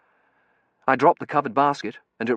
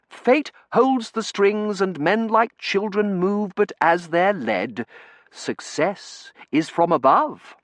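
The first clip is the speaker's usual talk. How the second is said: higher, slow, grand recitation; solemn quoting; 10 semitones higher, 4 dB louder, slower than usual. A narrator's reading. Terence quoting poetry about fate to the narrator, slow and grand. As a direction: intone the lines like a solemn oracle.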